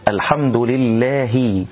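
slow "لله" ending in a distinct, short "hi"; clear kasra on ha. Shown as a demonstration. Teacher models for learners, full kasra without overdoing it. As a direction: voice the final i of "لله" cleanly. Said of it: "تحقيق الكسر في الهاء من لله".

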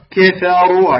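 "كفروا" with thin "ka", then a full "ru"; light kaf, heavy ra. Shown as a demonstration. Teacher models the word for students, light kaf and heavy ra. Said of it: "فأي راء مضمومة تفخم".

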